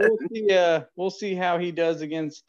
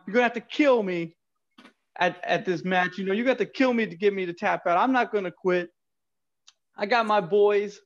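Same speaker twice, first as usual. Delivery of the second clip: put-on wrestling promo in a New York accent; 2 semitones higher than usual. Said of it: "do a promo in a New York accent".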